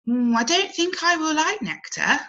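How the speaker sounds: wrinkling her nose at nectar; doubtful caterpillar. Acted.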